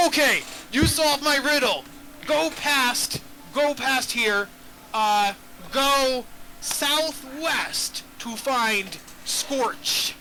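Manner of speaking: lightly voiced dim troll; slow, plodding troll directions; dopey cartoon troll. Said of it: "But the troll is like".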